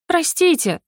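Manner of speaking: high, whining cry for mercy; whimpering plea. A narrator's reading. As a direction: whimper like a scolded girl. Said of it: "захныкала та".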